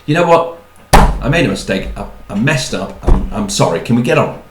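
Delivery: loud, matter-of-fact mock apology; acted apology with little warmth; brusque grudging apology. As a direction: apologise firmly and move straight on. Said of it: "won't apologise in a way that's warm and considerate".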